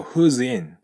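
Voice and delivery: "who's in" run together as "zin"; linked who's in. Shown as a demonstration. Teacher showing students the link. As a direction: glide the S of "who's" into "in".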